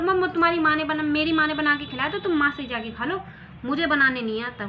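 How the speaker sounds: loud, fast snapping reply; wife snapping back in a quarrel; heated retort. Acted. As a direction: throw it back at him fast.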